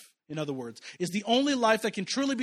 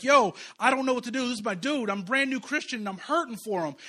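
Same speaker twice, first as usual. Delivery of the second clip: crying; 5 semitones higher, 4 dB louder than usual. Retold or imitated. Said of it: "I'm crying like".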